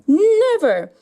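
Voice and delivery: loud, high never; defiant shout. Pretend. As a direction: refuse the monster. Tai defies the monster.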